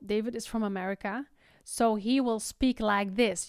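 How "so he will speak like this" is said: slow, exaggerated American speech; drawn-out American vowels; exaggerated American accent. Shown as a demonstration. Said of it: "exaggerate the American accent".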